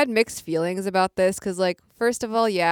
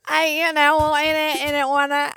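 higher, louder mock Cockney; bad Cockney accent; 10 semitones higher, 5 dB louder than usual. Co-host apes the host's terrible attempt, mock Cockney accent. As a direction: mimic an awful Cockney, hammed-up. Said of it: "That was a worse accent".

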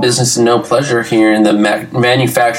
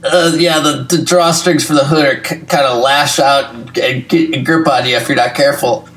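strangled voice. Acted. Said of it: "you're still making that voice".

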